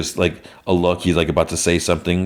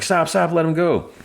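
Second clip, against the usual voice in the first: mild mock yell; 12 semitones higher than usual. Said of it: "they're all yelling".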